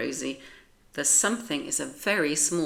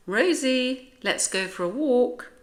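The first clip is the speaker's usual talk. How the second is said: higher, louder call across the house; calling the dog; 8 semitones higher, 5 dB louder than usual. Acted. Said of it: "George says".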